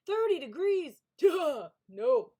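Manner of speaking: high, loud incredulous squeal; mock shock. Real, not acted. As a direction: scoff at the very idea. Streamer mocks idea of cold weather.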